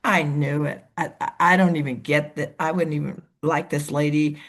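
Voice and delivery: a hint of a suspicious, unimpressed woman; wary quiet wife. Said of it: "she'd go".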